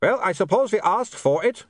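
put-on high, mild shout in vampire accent. A narrator's reading. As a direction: call over noise as a vampire. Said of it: "he shouted".

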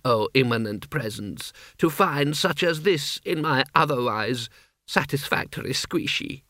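lightly voiced obsequious courtier; slow, ornate flattery, lightly acted; a touch of courtly grovelling; fawning vizier.

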